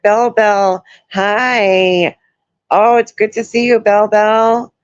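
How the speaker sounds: high, bright hello to a viewer by name; happy to see a regular show up; cheery greeting. Real, not acted.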